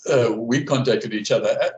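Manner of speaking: talking through hiccups; hiccuping mid-sentence. Real, not acted. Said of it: "I'm hiccuping".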